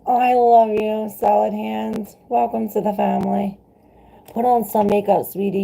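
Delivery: high excited greeting; squealing thanks. Real, not acted. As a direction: overflow with delight at the chat. Gushing over viewer comments.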